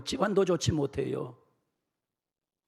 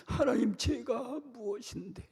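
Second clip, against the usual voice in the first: soft, slow, wondering plea; humble prayer; 5 semitones higher, 4 dB quieter, slower than usual. Acted. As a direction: murmur it in humility. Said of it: "뭐라고 하는 줄 알아요".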